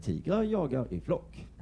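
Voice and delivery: slow, flat documentary narration; dull commentator. Retold or imitated. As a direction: read it with no feeling, slowly. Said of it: "kommenterar de det så". (lugn och trög naturfilmsberättare)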